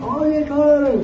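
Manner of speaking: high, slow mock enthusiasm; imitating the friend. Mimicking the friend reacting to New Zealand, high and slow. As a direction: stretch it out high like an eager friend. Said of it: "He's like, um".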